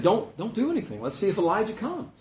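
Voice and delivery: a mild jeer at the man on the cross; mocking. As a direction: bystanders taunting the crucified man. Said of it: "Kind of mocking him".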